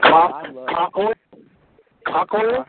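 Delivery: mock mishearing. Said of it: "No, coconut oil".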